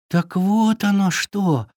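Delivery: shy little fawn realising; embarrassed fawn. Acted. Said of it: "произнёс чуточку смущённый оленёнок". (смущённый оленёнок)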